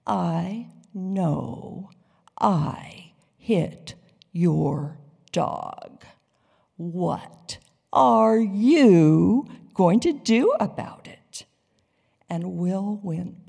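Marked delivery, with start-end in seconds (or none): 0.1-11.4 slow mocking drawl, ending louder; slow and deliberate. A narrator's reading. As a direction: spell it out slowly as if to an errant child. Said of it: "said it again slowly and more deliberately".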